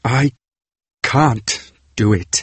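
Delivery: slow, flat and mechanical. A narrator's reading. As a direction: say it like a machine. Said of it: "he said mechanically".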